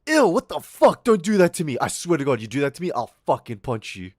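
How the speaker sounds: high, loud squeal of disgust, fading to a threat; disgusted friend. Retold or imitated. Greek squealing at the friend rubbing lice on him, high and loud. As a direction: shriek ew then warn him off. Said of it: "And Greek was like".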